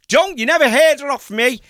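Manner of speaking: very high, mock-secretive voice; retold confidential warning. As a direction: act out swearing them to secrecy. Acts out conspiratorial parting warning.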